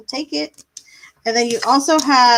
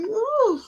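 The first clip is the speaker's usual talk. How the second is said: yawn; 11 semitones higher than usual. Real, not acted. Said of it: "I feel really bad when I yawn".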